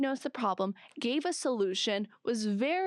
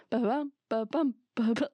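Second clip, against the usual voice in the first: rhythm imitation. Shown as a demonstration. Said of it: "the rhythm of it".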